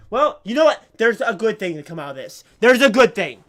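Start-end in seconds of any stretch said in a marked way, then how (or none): 2.6-3.4 laughing through the words. Real, not acted. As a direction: chuckle it out. Laughs at the bad situation.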